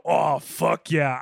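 slow, drawn-out aroused delivery; sexual tone. Shown as a demonstration. Host shows how the phrase can arouse someone, slow and sultry. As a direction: stretch it out like porn talk. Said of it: "getting a little aroused".

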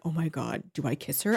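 low, soft private dithering; nervous inner voice. Retold or imitated. Smitten boy wondering whether to kiss her, nervous inner voice. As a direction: murmur it as a panicked thought to yourself.

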